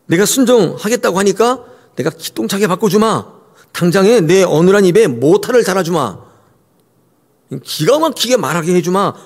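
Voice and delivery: sermon mocks an easy-going God; breezy mock God. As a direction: play a flippant genie-like God. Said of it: "이렇게 설득하지 않으시고".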